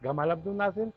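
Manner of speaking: گمال عبد الناصر with a hard g; Egyptian g for j. Shown as a demonstration. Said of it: "مصر میں جیم کو گاف کہتے ہیں".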